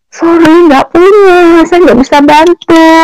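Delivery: imitating refusal.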